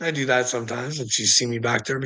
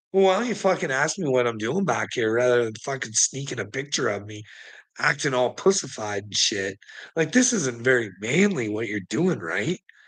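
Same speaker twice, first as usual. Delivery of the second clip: ordinary talk, nothing marked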